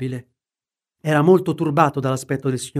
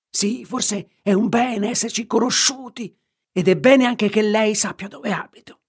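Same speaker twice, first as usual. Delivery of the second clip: swaggering; 7 semitones higher than usual. A narrator's reading. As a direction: throw it back with defiant swagger. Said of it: "replicò Hyde spavaldo". (tono spavaldo e beffardo, più acuto)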